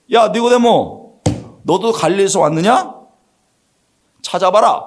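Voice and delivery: high-pitched, indignant acted retort; mock-angry leaders silencing an objector; squashing put-down. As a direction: slap down a dissenting colleague. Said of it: "확 누른 거예요".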